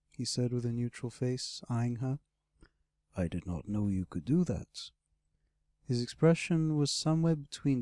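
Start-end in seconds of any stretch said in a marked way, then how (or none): 3.2-4.9 lightly voiced low dragon; great red dragon. Dragon eyeing his rescuer, low and mildly disapproving.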